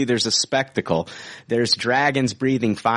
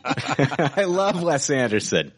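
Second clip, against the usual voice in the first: laughing; 2 semitones higher, slower than usual. Real, not acted. Defending a director, laughing.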